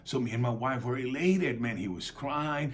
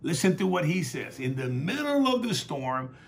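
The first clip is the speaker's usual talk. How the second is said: loud, raised-pitch sermon delivery; fervent preaching; 5 semitones higher, 5 dB louder than usual. Real, not acted. Preacher retells Jesus calming the storm for the congregation, fervent preaching. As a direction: preach it out with punched phrases.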